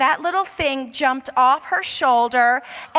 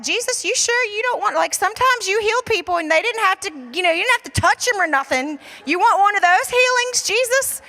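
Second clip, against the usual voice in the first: quick, higher-pitched mock plea; half-joking bargaining, rushed and raised; pleading with Jesus; 5 semitones higher, faster than usual. Pastor retelling how he begged Jesus, quick and high.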